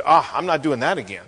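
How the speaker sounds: low, soft backing down; mock-intimidated, under the breath; cowed muttering. Cowed Ishbosheth voiced after being intimidated.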